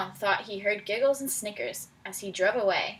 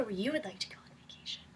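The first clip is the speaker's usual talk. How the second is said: quick breathy whisper to the class; hushed, fast instruction; 10 dB quieter, much faster than usual. Real, not acted. Teacher whispering the task to the class. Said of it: "Whisper to your neighbor".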